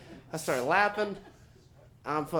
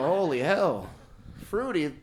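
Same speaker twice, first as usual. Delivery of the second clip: hammed-up offended husband; mock indignant; 3 semitones higher than usual. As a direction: push back, stung. Indignant retort to wife.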